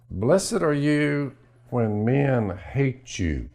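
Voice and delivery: very slow, solemn Bible quote; slow, reverent verse; scripture recitation. Acted. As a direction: intone it like a preacher. Quoting scripture.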